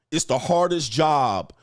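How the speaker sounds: normal talking voice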